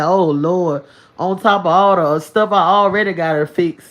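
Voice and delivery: lightly voiced exasperated complaining; weary regret. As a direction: groan to the Lord about the new mess. Mocking someone regretting a partner.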